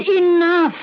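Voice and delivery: high, firm one-word shutdown; sharp cutoff. Acted. Lottie silencing Anton's refusal, a firm high cutoff. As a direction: end the argument with one word.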